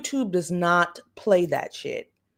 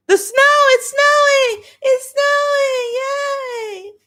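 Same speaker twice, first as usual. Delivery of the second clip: high, loud, crying with joy; squealing through happy tears; tearful joy; 13 semitones higher, 5 dB louder, slower than usual. Real, not acted. Excited at the first snow, crying and shouting. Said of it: "Oh, I'm not crying".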